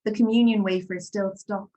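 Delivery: measured poem recital with long pauses; poetry reading. Acted. Poet reads her Corpus Christi poem to an audience, measured recital.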